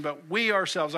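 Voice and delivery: "we" punched, "ourselves" falling; emphatic. Shown as a demonstration. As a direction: stress on "we" in "we ourselves". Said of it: "It's not we are groaning".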